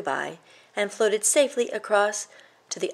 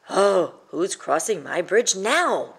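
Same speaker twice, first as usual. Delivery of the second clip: slow, weary grumbling troll; soggy grumble; 4 dB louder, slower than usual. Acted. Wet troll complaining about another visitor, slow grumble. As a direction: grumble it as if soaked and defeated. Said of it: "grumbled the troll with a soggy sigh".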